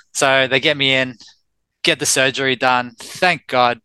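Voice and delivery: ordinary talk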